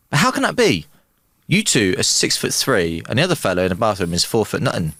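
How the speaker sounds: lightly put-on Irish accent. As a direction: tell it with a joking Irish lilt. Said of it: "I like the Irish accent".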